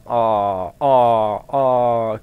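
loud startled oh oh oh. Real, not acted. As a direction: burst out in shock, sharply loud. Startled at a library find.

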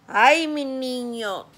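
worried sigh. Retold or imitated. Mother hears son fell.

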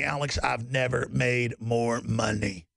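lightly voiced smug insider, low and slow; smug rich insider. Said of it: "And they tell me".

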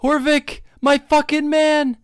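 delighted cheer. Real, not acted. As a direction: hail him like a hero. Greeting NPC in delight.

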